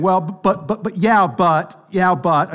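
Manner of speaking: stammering mock protest; backpedaling objection. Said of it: "started jumping back and saying".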